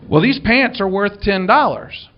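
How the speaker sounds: man arguing with the minister, mildly hammed-up indignation; indignant man. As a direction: huff it like the offended owner. Man insists on the price.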